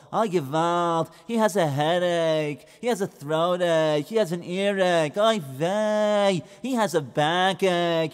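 lightly voiced lamenting Yiddish-flavoured man; a hint of an old complainer; kvetching Levi. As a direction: moan through every ache.

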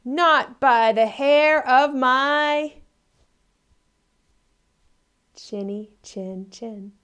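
loud slow refusal, fading on the end; defiant pig. Acted. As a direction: stand firm as the little pig, then drop. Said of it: "And the pig says".

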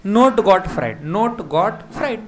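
"not" drawn out slowly before "Godfried"; memory-hook wordplay. Shown as a demonstration. Wordplay linking noteworthy to Godfried. ("not" खींचकर, याद कराने के अंदाज़ में)

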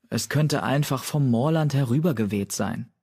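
ordinary delivery

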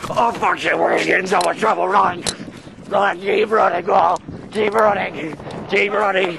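high, urgent shouts to run; panicked yelling. Acted. Friend fleeing trouble with Paul, high panicked yelling. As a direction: yell in a hurry to get away. Fleeing after ding-dong ditch.

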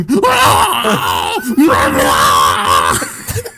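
loud, pained braying cry; anguished donkey bray. Retold or imitated. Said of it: "really pained brays".

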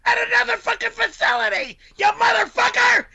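raging yell; furious shout. Acted. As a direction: spit the curses out at him. Furious quarrel, cursing.

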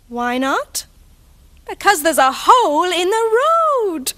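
lively picture-book reading; reading to children. Acted. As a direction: read it like a bedtime picture book. Reads picture book aloud.

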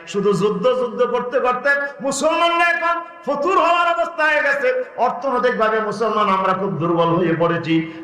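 chanting, oratorical sermon storytelling; impassioned preaching. Real, not acted. Preacher tells congregation of the Prophet's companions, impassioned preaching. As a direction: declaim the story to a crowd, stopping to demand answers.

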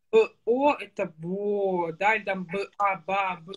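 Б О blended into бо, slowly; sounding out syllables. Shown as a demonstration. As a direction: join Б and О into бо, slowly. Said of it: "слоги в слова".

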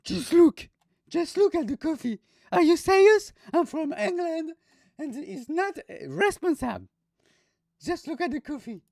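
shrill high mock English indignation; angry English tourist. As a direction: play the furious British customer, way up high. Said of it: "Regarde l'anglais comme il était énervé".

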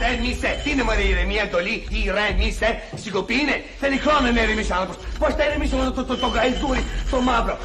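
worked-up, exasperated outburst; indignant rant. Acted. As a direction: throw the plea to calm down back angrily. Rants after being told calm down.

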